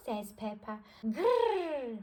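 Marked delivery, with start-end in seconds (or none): 1.2-1.9 higher mock dinosaur grr; playful growl. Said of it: "replies George".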